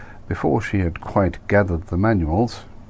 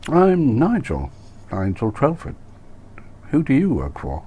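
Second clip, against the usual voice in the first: eager Nigel; 8 semitones higher than usual. Acted. Nigel voiced in dialogue.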